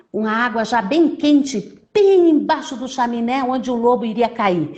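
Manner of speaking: put-on lively story narration for children; animated storyteller, key words punched; children's storytelling. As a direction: tell it like a tale to little ones.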